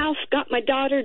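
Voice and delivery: normal talking voice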